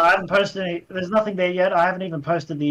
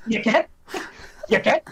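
imitated Scottish co-worker; 5 semitones higher than usual. Retelling Scottish guy's baffling question.

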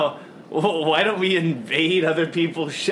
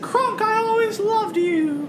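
hammy dying farewell; 13 semitones higher than usual. Acted. Mock farewell to dying crewmate.

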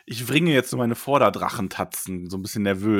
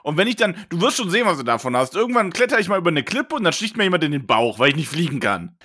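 put-on sulky teen threat; 3 semitones higher than usual. Teen son threatens father.

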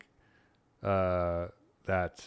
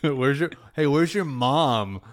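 higher, slowed mock Boston accent; 4 semitones higher than usual. Boston shopper calling to a kid, mock Boston accent. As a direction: call out like a Boston local. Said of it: "Very Boston".

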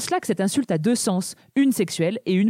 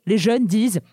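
slow drawled American "perv"; American accent; 3 semitones lower, slower than usual. Shown as a demonstration. Host demos the young people's word "perv" in an American accent. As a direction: say "perv" slowly with an American twang. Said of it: "j'ai tellement l'air d'une vieille".

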